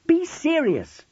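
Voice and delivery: very high, exasperated outcry; loud, high-pitched frightened plea; scream. A narrator's reading. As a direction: scream at him to stop joking. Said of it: "Jackie screamed at him".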